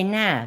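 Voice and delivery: Nah short and broad; local nah. Shown as a demonstration. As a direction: drop it to a flat Leicester nah. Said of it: "we say".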